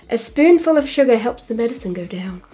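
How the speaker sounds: "A spoonful of sugar" in a posh English accent; lightly put-on posh English accent, crisp and proper. Shown as a demonstration. Streamer tries the song line for comparison in a posh English accent. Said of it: "say that in a posh voice".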